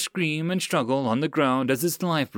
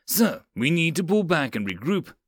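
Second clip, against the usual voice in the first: slightly raised, urgent appeal; yelled appeal; 4 semitones higher than usual. Acted. Sergeant urging lieutenant to regroup, mildly yelled. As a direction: press the point over gunfire. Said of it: "Mills yelled at Karath".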